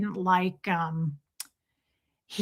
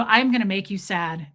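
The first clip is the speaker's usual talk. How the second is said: understated mock threat; unanimated toddler threat; 3 semitones lower than usual. Small son to mom, understated threat. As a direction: imitate a toddler warning without raising the voice. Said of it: "He wasn't super animated".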